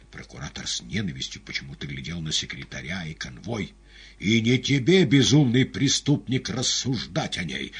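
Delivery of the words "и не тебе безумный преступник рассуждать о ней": резко и громко, с яростью; обрушься на преступника; гневный окрик. A narrator's reading. Пилат в гневе на арестанта. (гневно, громко)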